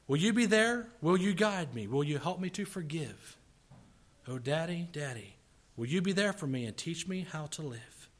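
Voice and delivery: earnest, pleading recitation with rising swells; heartfelt poem reading. Acted. Preacher reads a little boy's plea to fathers, heartfelt. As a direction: read it as a child's plea to a father.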